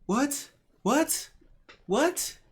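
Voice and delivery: high, rising wailing what; whiny little kid asking what over and over; hammed-up crying toddler; mock toddler whine.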